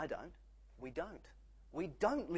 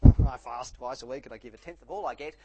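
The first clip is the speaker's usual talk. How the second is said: much louder, boastful mock prayer with a laugh; hammed-up self-righteous bragging to God; smug Pharisee; 14 dB louder than usual. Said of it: "The Pharisee stood up and prayed".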